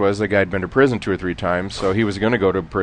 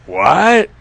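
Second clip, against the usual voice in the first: mock surprise; 8 semitones higher, 6 dB louder than usual. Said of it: "I said".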